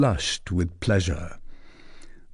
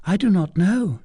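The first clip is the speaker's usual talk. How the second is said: put-on a higher, teasing young lady's voice; coy young lady; 9 semitones higher than usual. A narrator's reading. Young lady teasing the captain, coy and higher. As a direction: play the coy cousin pressing her question. Fleur de Lis voiced high.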